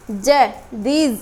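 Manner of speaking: जय, these spelled out very slowly, ending on a z; drawn-out teacher demo of these; slow pronunciation demo. Shown as a demonstration. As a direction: these sounded out slowly for the class. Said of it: "इसको ऐसे नहीं पढ़ना".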